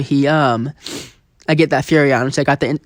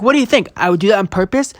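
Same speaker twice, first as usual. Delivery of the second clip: pitched way up in disbelief, higher; asking the game if it's serious; mock incredulous; 4 semitones higher than usual. Player mimicking his disbelief at the game, higher pitched. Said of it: "I'm like".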